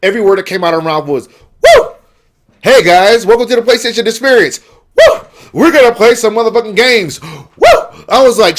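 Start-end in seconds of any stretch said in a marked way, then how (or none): 1.3-8.0 high, loud wrestler-style whooping hype; mock a whooping show host; hammed-up promo with piercing woos; Ric Flair. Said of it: "A K A Ric Flair".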